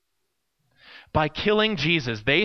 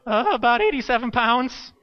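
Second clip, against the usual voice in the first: put-on higher-pitched, hesitant kid voice; timid boy's reply; 5 semitones higher than usual. Skinny boy answers camp leader about his weight, mock timid. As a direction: imitate your younger self answering meekly. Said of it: "And I responded".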